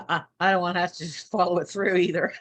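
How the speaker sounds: giggly, quick admission; giggling. Real, not acted. Joking to fellow members about not following through, giggling. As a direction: let giggles break in around the words. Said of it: "giggling now".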